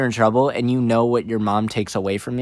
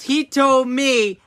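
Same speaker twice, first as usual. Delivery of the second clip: insistent friend; 11 semitones higher, 3 dB louder, much slower than usual. Retold or imitated.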